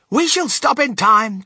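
high, loud, slow call. A narrator's reading. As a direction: call back firmly to the group. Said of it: "called out Mister Wonka".

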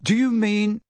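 careful, puzzled query; said slowly. A narrator's reading. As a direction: leave the question hanging. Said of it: "said Harry slowly".

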